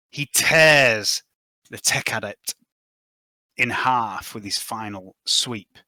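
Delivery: slow, deliberate scene-setting with long dramatic pauses; game master narration. Acted. Game master describes a monster's kill to players, dramatic narration. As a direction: narrate the gory kill piece by piece.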